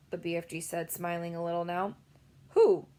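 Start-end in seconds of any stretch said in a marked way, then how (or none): 2.5-2.9 a loud, startled anxious cry; alarmed girl; a touch of worried alarm; anxiously. A narrator's reading. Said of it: "Sophie cried anxiously".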